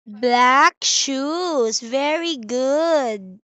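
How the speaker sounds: put-on reading to a toddler. Shown as a demonstration. Teacher modelling words for child.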